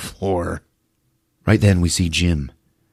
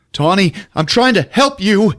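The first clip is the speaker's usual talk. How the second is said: high, louder pleading cry; mock pleading; 12 semitones higher, 4 dB louder than usual. Jim pleading with possessed girlfriend, high mock plea. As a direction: beg her to stop. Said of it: "Jim pleading".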